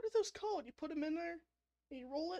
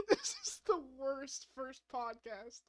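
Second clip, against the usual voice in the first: laughing despair; 5 dB louder, slower than usual. Real, not acted.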